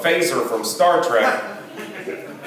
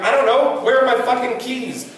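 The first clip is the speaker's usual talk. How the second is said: panicked new dad; 8 semitones higher than usual. Retold or imitated. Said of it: "I was like".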